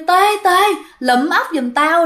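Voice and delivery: a ghost beckoning his friend by name; ghost calling out. Acted. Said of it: "vẫy vẫy tay kêu".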